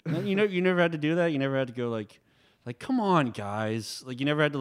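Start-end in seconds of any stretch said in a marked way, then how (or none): 2.8-4.0 mock exasperated. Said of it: "talk down to a company going".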